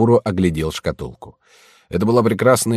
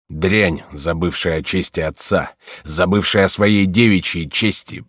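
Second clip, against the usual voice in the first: грозный отец. Acted. Отец грозит зарубить дочь.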